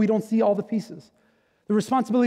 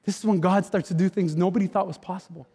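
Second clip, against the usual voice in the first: usual speaking voice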